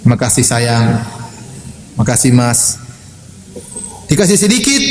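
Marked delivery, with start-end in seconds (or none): 0.0-2.8 low-pitched, gentle thank-you; sweet wifely thanks. Shown as a demonstration. Preacher models how wives should thank husbands, gently. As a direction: thank a spouse tenderly, pitch dropped. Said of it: "Ibu-ibu bisa ngomong nggak?".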